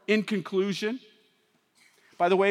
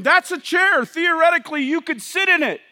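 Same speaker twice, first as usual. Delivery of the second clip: mock detached observer; 6 semitones higher, 5 dB louder than usual.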